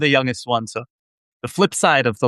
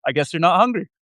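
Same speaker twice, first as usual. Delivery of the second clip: put-on Israeli accent; 5 semitones higher, faster than usual. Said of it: "in a heavy Israeli accent".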